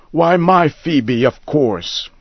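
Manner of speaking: high, eager insistence; insistent. A narrator's reading. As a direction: say it as if obvious. Old man insists.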